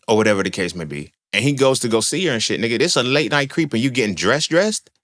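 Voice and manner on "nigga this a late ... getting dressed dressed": incredulous. Real, not acted. Mocking guy dressing up.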